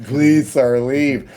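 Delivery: firm, high "please, sir, leave"; stern cop. Retold or imitated. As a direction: order him out firmly. Cops telling him off.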